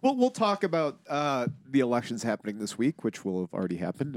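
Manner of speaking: blocked nose; stuffy nose. Real, not acted. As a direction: talk through a stuffed-up nose. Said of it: "I'm a little stuffy today".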